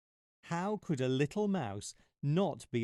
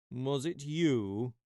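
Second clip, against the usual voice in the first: mild lion growl; 2 semitones higher, slower than usual. Acted. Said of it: "he growled".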